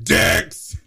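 mock Catherine. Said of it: "Catherine's more like".

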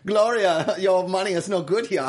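laughing while doing the line; quote through laughter. Retold or imitated.

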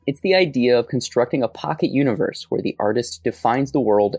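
measured essay-style podcast narration; scripted narration. Acted. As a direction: read it out like a documentary narrator. Reads the scripted act opening.

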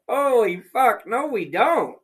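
loud, high disbelieving yelp; aghast yell of disbelief; shocked outburst. Retold or imitated. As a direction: blurt it out in shock. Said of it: "And I was like".

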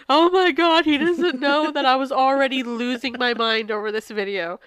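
losing it with emotion; teary high voice breaking through; crying. Real, not acted. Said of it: "you can hear it right now".

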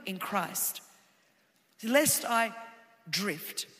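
quiet personal confession; soft intimate. Acted. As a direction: drop to a near whisper. Quiet reflective preaching.

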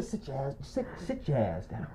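low, very soft retold order; stunned command. Showing the friend sending him off, stunned hush. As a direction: imitate him quietly laying down the law. Same quoted hushed order.

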